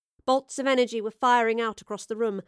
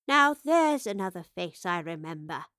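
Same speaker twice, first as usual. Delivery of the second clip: put-on beaming old woman; 3 semitones lower than usual. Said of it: "the older professor beamed".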